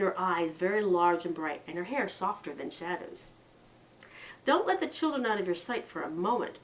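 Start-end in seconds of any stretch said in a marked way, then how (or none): 4.4-6.6 warning. Acted. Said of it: "Pretty warned them".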